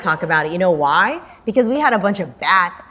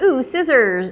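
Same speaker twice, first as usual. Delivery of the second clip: higher-pitched little ooh of a find; pleased discovery; 6 semitones higher, slower than usual. Retold or imitated. Host retelling peeking in at scissors, pleasantly surprised. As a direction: spot a treasure and coo over it. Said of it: "and I was like".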